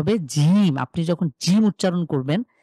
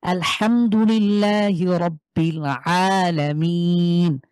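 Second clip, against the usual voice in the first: slow recitation; much slower than usual. Shown as a demonstration. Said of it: "Quran demo".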